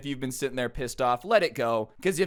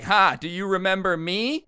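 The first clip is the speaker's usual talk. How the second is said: higher, louder triumphant taunt; gloating revenge; 6 semitones higher, 5 dB louder than usual. Acted. Grudge holder confronts you over a ruined Starbucks order, gloating. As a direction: crow it like petty revenge finally served.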